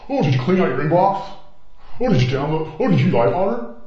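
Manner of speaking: high, mocking singsong questions; computer guy. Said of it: "I love the computer guy".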